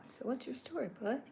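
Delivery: high, easygoing buddy voice; a hint of a laid-back friendly character; laid-back Chuck. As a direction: kick back and ask like a relaxed pal. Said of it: "he's very kick back and relax".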